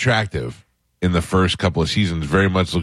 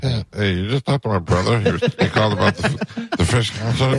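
strained fake caller voice. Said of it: "It sounds like you dying".

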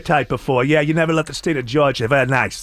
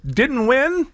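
radio contest promo; 5 semitones higher than usual. Shown as a demonstration. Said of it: "Is that your verbiage?".

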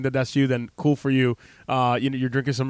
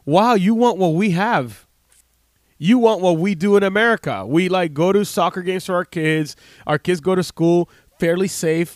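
moved to tears; 3 semitones higher than usual. Retold or imitated. Soldier recalling the policeman's hopes, emotional and near tears. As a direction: let the heartbreak push the voice up. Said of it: "started crying for him".

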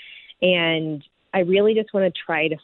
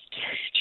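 shaky sigh; 8 dB quieter than usual. Real, not acted. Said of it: "trying to work on my deep breaths".

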